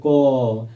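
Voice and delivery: क said short, ending in a faint a; teacher sounding क for the class; consonant ka. Shown as a demonstration. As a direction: sound out क so the a shows. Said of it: "आप क बोल के देखिए".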